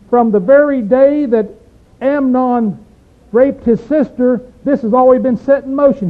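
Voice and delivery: loud, emphatic scripture quote; forceful reading. Retold or imitated. Preacher booming Jonadab's words to the church. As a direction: declare it to the congregation.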